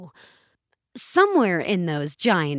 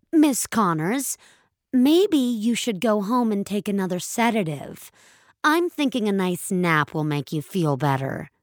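lightly voiced condescending young agent. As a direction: talk down to her like a child. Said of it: "The condescending words of youth".

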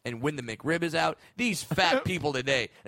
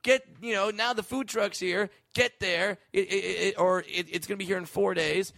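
high, pushy app alert; 5 semitones higher than usual. Retold or imitated. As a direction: nag like a cheery app. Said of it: "apps that tell you".

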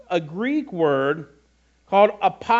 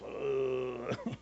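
strained groan; 5 semitones lower, 13 dB quieter than usual. Acted. Mimes being stuck in slow motion.

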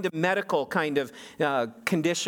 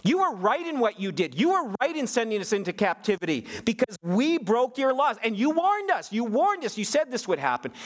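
Daniel's confession; 9 semitones higher than usual. Retold or imitated. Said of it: "And he says".

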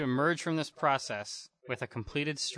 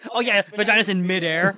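laughing; 4 semitones higher, 9 dB louder than usual. Real, not acted. Laughing through the joke.

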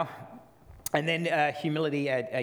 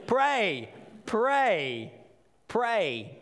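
fervent repetition; 7 semitones higher, much slower than usual. Acted. Pastor urging the congregation, building fervor. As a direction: hammer each word. Repeated exhortation.

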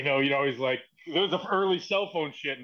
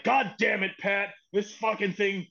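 mock pissed-off boss, pitched up; retold tirade, higher but not shouted; imitated angry rant; 4 semitones higher than usual. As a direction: lay into them, half in earnest. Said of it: "Why is he so pissed off".

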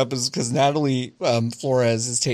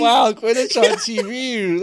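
mock amazement; 9 semitones higher, 4 dB louder, slower than usual. Mocking the Sky Sports ad.

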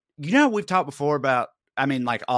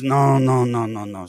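flight attendant refusing; 5 dB louder, slower than usual. Retold or imitated. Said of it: "she says".

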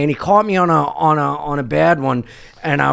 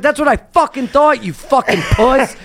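high, heated put-down; high scorn, slowing on the final insult; retold scornful taunt; 6 semitones higher than usual. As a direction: re-enact winning a street standoff. Retold parting taunt in quarrel.

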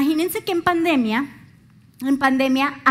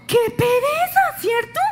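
mock disgust; 11 semitones higher than usual. Mocking that bitter attitude.

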